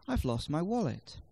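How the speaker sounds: key words "lost" and "wallet" stressed; stressed content words. Shown as a demonstration. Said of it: "lost and wallet, and they will therefore be stressed".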